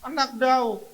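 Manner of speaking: high, loud cries with pauses; shouting. Shown as a demonstration. Preacher shows the stressed how to shout to Jesus. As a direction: call out each name loud and high. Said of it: "Teriak saja kepada Tuhan Yesus".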